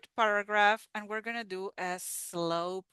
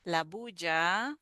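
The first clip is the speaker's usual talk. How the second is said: slow, phrase-by-phrase read-aloud; teacher reading the paragraph slowly. Shown as a demonstration. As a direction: read slowly with pauses for repeating. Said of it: "So I'm gonna read very slow".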